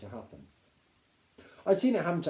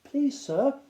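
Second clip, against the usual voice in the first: nervous plea; 14 semitones higher, 7 dB louder than usual. A narrator's reading. Frightened boy pleads.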